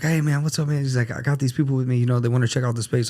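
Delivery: high, loud, hyped-up buddy; wired. Retold or imitated. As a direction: imitate a friend bursting with energy. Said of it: "this guy was wired".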